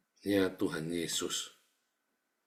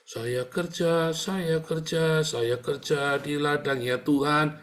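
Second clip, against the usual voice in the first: slow, higher, self-satisfied drawl; mock smug worker; 3 semitones higher, slower than usual. Preacher mocks a believer boasting of working for God, slow and smug. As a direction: lightly ham up a smug claim to work for God.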